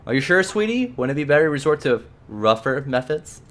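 a hint of an eager, menacing servant; bloodthirsty companion. Edna offering to bite the clerk, lightly voiced eagerness. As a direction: offer violence like a loyal pet.

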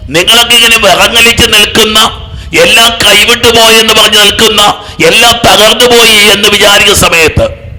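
loud, high preaching at full force; fervent preaching. Acted. Preacher rousing the congregation, loud and high. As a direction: build the crowd up, each line hammered.

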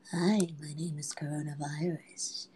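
whispered sinister virus voice, slow at the end; virus villain. Pretend. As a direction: play the virus as a creepy villain. Voicing the coronavirus itself.

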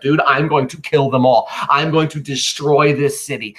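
a touch of vengeful anger; angry vow. Acted. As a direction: vow revenge, lightly acted. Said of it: "Anthony's angry".

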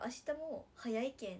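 Nagasaki dialect, said out firmly. Shown as a demonstration. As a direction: demonstrate the normal Nagasaki tune. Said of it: "いつもやったら".

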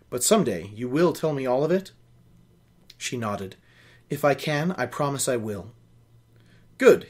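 reading a novel aloud, steady and even; story narration. A narrator's reading. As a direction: carry the listener through the scene. Reads novel aloud with character voices.

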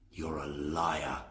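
slow, lightly voiced rough partner; a hint of a scornful outlaw; Bill sneering at Sam, lightly voiced; Bill's voice.

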